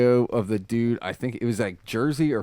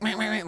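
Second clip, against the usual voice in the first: imitated car horn; 10 semitones higher, 5 dB quieter, faster than usual. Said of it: "laying on the horn".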